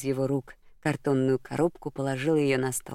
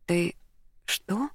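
a high startled little question; a breathless startled question; stunned babble; 4 semitones higher than usual. A narrator's reading. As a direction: blurt it out in disbelief. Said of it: "пролепетала Клелия с распахнутыми от удивления глазами".

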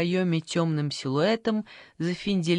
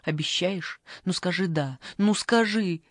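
mild tearful plea. Acted. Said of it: "заплакала она".

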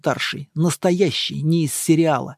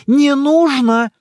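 protesting; 9 semitones higher, 7 dB louder, slower than usual. A narrator's reading. Monk stopping her.

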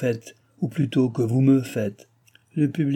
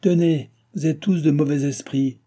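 feigned fury; 3 semitones higher, 3 dB louder than usual. Acted. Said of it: "cria le roi, jouant la fureur".

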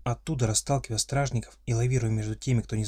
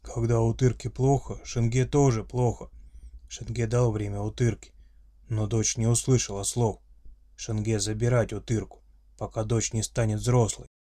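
friendly monster voice. Acted. Orc father explains.

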